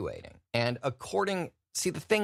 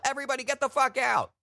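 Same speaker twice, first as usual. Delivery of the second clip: mock yell; 14 semitones higher, faster than usual. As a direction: bellow it like a Santa fleeing a fire. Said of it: "rip off your beard and yell".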